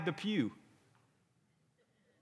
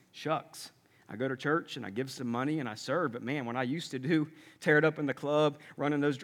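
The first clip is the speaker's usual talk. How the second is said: lower, softer, half-hearted acting of a lukewarm believer; deflated mock testimony; 4 semitones lower, 5 dB quieter than usual. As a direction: play an underwhelmed churchgoer giving testimony.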